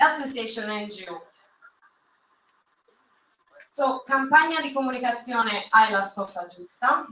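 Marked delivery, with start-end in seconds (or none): 4.1-7.0 proud Italian accent on the name. Shown as a demonstration. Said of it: "Do you like my perfect Italian accent?".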